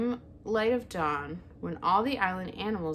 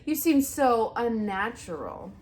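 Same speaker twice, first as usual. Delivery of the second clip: louder, slow screech; 4 semitones higher, 7 dB louder than usual. A narrator's reading. Owl screeching down at the robot, slow. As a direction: spit it out, slow and loud. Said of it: "screeched the owl".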